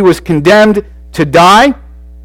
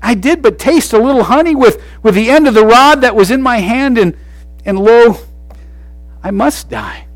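resigned reading; 7 semitones higher than usual. Shown as a demonstration. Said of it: "He could have said it this way".

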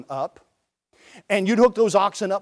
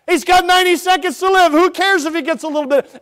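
emphatic repeat; 10 semitones higher, 7 dB louder than usual. Retold or imitated. Repeating the farmer's line.

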